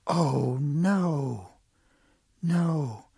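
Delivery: dismayed lament. Acted. Turtle finds whistle gone.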